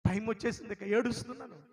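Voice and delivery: ఏడుస్తున్నాను said loud and high, plainly declared; emphatic telling. Retold or imitated. Preacher recounting his graduation, the word ఏడుస్తున్నాను declared loud. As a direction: state ఏడుస్తున్నాను firmly, still composed.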